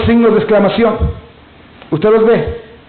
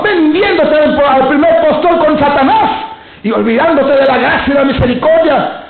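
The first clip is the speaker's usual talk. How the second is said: fiery preaching; 2 semitones higher than usual. Acted. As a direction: preach it with fire and conviction. Preacher at full force. (predicación con fuego)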